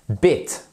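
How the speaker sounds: Bit with a short clipped i; short vowel from the throat. Shown as a demonstration. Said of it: "c'est le I court".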